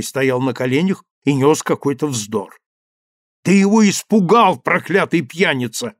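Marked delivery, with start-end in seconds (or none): 3.4-5.9 angry shout. Acted. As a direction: yell it at the drunk in fury. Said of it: "закричал я".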